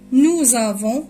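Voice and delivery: "nous avons" linked with a z sound; French liaison. Shown as a demonstration. Teacher demonstrating the liaison to students, "nous avons" joined by z. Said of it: "بنقرأ la liaison".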